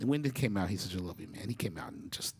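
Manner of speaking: ordinary delivery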